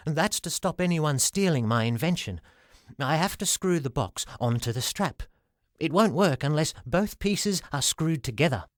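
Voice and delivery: a hint of a shy salesman; timid little man. Flinty's voice.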